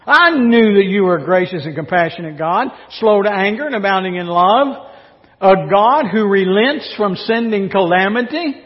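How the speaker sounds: a hint of whiny, bitter complaint; sulky complaint. Jonah grumbling to God, mildly bitter. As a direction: sulk at God for being merciful. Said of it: "using quite that tone".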